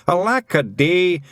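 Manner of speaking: high, loud slow lament; Feegles shout. A narrator's reading. Feegles shout in despair, loud and high. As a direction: wail to the heavens.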